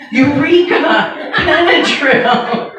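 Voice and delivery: slow, high mock triumph; hammed-up discovery, drawn out; eureka moment. Mom hams up a eureka over the sleepy kid's Benadryl. Mom's sudden bright idea.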